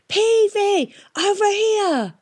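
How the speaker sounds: high loud call across the noise; hollering. A narrator's reading. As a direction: shout to be heard. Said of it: "she hollered".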